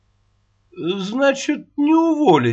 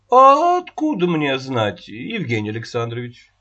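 singsong. Acted. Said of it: "нараспев сказала она".

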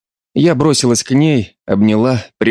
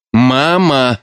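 barked; 3 semitones higher than usual. Acted. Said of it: "рявкнула я".

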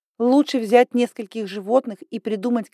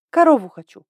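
breathy, higher and louder wish; breathy dreamy; 5 semitones higher, 6 dB louder than usual. A narrator's reading. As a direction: breathe the words out longingly. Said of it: "с придыханием сказала я".

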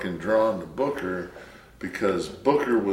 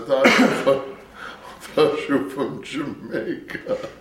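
mocking Hunter; 6 semitones higher, 3 dB louder than usual. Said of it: "Hunter said".

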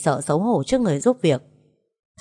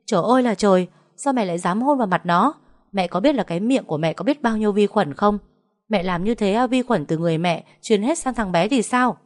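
shouting in outrage; 4 semitones higher than usual. Acted. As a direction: shriek it at her in disgust. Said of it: "cô la toáng lên". (la toáng lên giận dữ)

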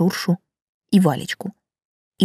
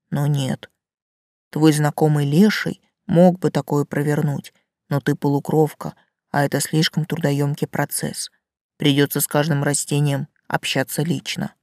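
talking tree; 4 semitones lower than usual. Acted. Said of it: "низкий и бархатистый".

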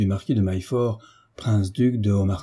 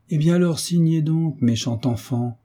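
higher, fond teasing urging; smiling, teasing; 6 semitones higher than usual. A narrator's reading. Marquis urging the girl to sign, fond smiling tease. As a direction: tease affectionately with a smile in the voice. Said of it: "dit le marquis en souriant".

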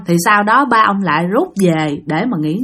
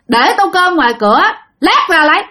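terse answer, jumping higher on the last words; curt, clipped reply; 6 semitones higher than usual. Retold or imitated. Bảy answers his elders from inside, curt and blunt. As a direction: answer in short, blunt chunks with no courtesy. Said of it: "tự nhiên nhát gừng vậy đó".

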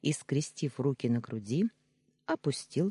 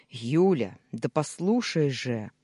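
louder, urgent call to listen; mild roar; 5 dB louder, slower than usual. Acted. Danya demanding Yulia listen, a louder half-roar. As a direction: raise the voice to make her hear. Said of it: "взревел Даня".

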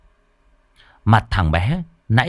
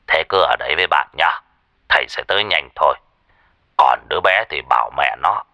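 lower, practical advising voice; master giving instructions; 5 semitones lower than usual. Acted. Master telling her to stay with her friend, instructing. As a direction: instruct and reassure in a lowered pitch. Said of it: "dặn dò".

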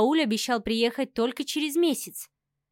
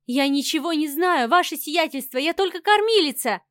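wailing plea; 4 semitones higher than usual. Acted. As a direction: beg the count, voice climbing in fear. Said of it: "несчастно причитая".

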